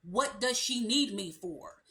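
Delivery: hammed-up confused guy who asks why he is there; exasperated boyfriend. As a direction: mimic a man who feels useless, rising to an outburst. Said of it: "he's gonna be like".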